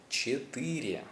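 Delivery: Четыре said slowly with all three syllables; full careful Russian. Shown as a demonstration. Teacher modelling the full Russian word, careful and clear. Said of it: "That's three syllables".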